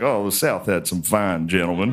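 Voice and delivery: a hint of a doting Southern historian; old Southern historian. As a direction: savor it like a proud old Southerner. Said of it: "he's like".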